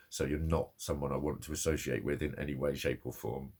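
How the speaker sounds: low, controlled imagined rebuff; contained, low-pitched rejection; firm dismissal. Retold or imitated. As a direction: cut someone off in a low, even voice. Acted firm rejection of the woman.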